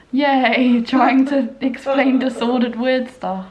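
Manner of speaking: a loud ironic little cheer. Real, not acted. Daughter cheers wryly after explaining to Mum, ironic yay.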